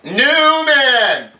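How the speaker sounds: loud, high, drawn-out sneer of the name; hammed-up Jerry spitting out his rival's name; Seinfeld Newman call. Host imitates Seinfeld greeting Newman, loud and sneering. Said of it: "From Seinfeld".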